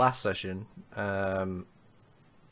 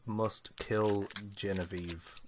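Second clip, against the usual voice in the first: sinister whisper; 5 semitones lower, 12 dB quieter, slower than usual. Retold or imitated. Quoting sinister recorded note.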